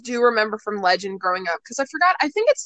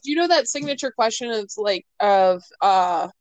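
gargling words. Real, not acted. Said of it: "sound like I'm gargling words".

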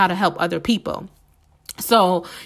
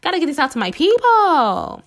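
determined self-quote; 6 semitones higher than usual. Retold or imitated. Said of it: "but I'm like".

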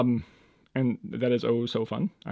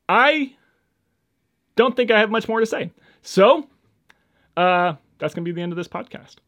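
high sing-song; 8 semitones higher, 5 dB louder than usual. Real, not acted.

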